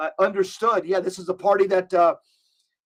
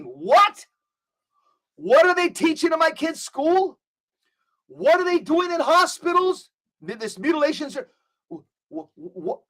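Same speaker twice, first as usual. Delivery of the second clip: high, incredulous, outraged questioning; outraged parents; 7 semitones higher than usual. Retold or imitated. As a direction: voice parents aghast at what schools teach.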